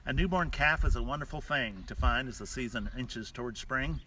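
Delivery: rhythmic cowboy poem recitation; cowboy poetry. Shown as a demonstration. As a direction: recite it like a ranch poem at the campfire. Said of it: "with this cowboy poem".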